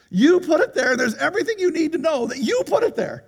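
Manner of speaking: ironically gentle. Retold or imitated. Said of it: "he said it that gently".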